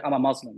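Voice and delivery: Muslim said as "MUZ-lum"; anglicized "muzz" in Muslim; westernized pronunciation. Retold or imitated. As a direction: buzz a z in Muslim, first vowel "uh". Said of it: "It's like saying".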